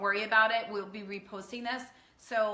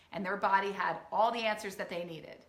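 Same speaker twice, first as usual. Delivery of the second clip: usual speaking voice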